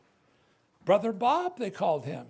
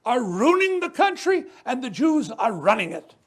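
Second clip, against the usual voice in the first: a hint of a bigoted father, a little louder; quoting his racist father; 2 semitones higher, 6 dB louder than usual. Recalling his father's words: a lightly voiced bigot. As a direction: lightly voice the father's sneering scorn. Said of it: "He would say".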